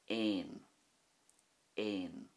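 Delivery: "aon" with a long "ay" before the n; long fada vowel. Shown as a demonstration. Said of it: "the difference that a fada makes".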